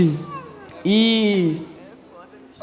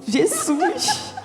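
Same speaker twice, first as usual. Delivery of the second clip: 1 espanto; 12 semitones higher, 3 dB quieter than usual. Retold or imitated. Espanto com o povo pulando.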